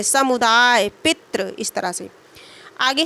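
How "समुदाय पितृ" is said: समुदाय and पितृ with weight before the last sound; stress on preceding syllable. Shown as a demonstration. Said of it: "पूर्व वाले पे हम दे रहे हैं". (समुदाय और पितृ में पूर्व अक्षर पर बल)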